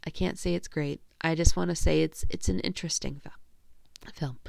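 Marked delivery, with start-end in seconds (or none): 2.3-4.4 "film" cut by a hiccup. Real, not acted. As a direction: say "it's an interesting film" through a hiccup. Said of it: "I'm, like, hiccuping".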